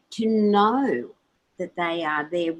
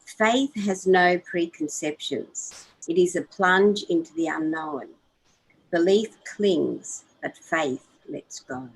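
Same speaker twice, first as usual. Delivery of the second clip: reading aloud. Shown as a demonstration. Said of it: "read that little part".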